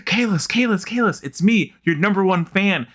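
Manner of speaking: high-pitched fanboy gushing; high, starstruck mock squeal at normal volume; freaking-out fan. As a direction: play the overexcited number one fan. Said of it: "that guy who freaks out".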